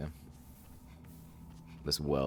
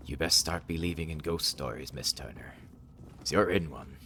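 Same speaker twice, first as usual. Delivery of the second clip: pirate captain. Pretend. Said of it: "Talk Like a Pirate Day".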